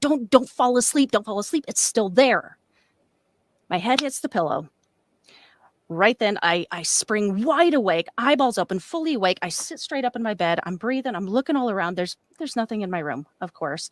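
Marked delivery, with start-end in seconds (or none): 0.0-2.6 desperate, high, urgent screaming. Retelling falling back asleep, retelling a scream in the head. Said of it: "I'm screaming in my head".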